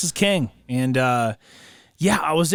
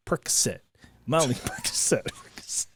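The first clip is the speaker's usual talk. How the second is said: whispering; 4 semitones lower, 9 dB quieter than usual. Retold or imitated. Drug names ringing in his head.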